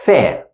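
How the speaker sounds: The said with tongue out, unvoiced th; breathy unvoiced th, tongue between teeth; Arabic letter sound. Shown as a demonstration. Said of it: "with my tongue out".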